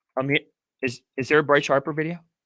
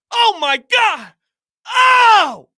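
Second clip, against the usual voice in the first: high, loud shout on oh; excited shout; 14 semitones higher, 6 dB louder, much slower than usual. Real, not acted. Fan overwhelmed by the team video, shouting in excitement. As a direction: burst out overwhelmed.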